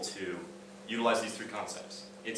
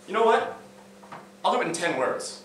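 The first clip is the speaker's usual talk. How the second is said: sharp, much higher and louder retort to dad; snapping back at a needling father; agitated; 9 semitones higher, 4 dB louder than usual. Retold or imitated. Son fed up with his teasing dad, agitated higher shout. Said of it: "I'm getting a little agitated".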